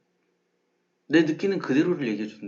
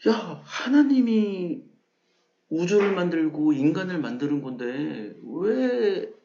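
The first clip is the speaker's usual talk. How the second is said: mock outraged believer; 2 semitones higher, slower than usual. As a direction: play the scandalised crowd scolding Darwin. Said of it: "다윈에게 화를 냈어요".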